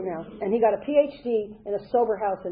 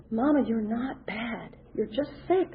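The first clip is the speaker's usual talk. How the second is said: sister reassuring mother; 4 dB quieter, slower than usual. Retold or imitated. Sister telling their dying mother she's just sick, slow and gentle. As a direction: soothe her like a grieving daughter. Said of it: "she goes".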